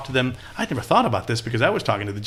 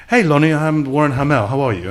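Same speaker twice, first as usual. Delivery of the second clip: imitated South African greeting, pitched up and louder; South African accent; 5 semitones higher, 7 dB louder than usual. New colleague introduces himself to the candidate, South African accent. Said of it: "It was actually a South African accent".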